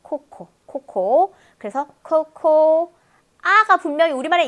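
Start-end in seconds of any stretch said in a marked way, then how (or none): 0.0-2.9 "코코" stretched slowly, louder; slow coco drill. Shown as a demonstration. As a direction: drag out "코코" for students. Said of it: "코코라고 발음하세요".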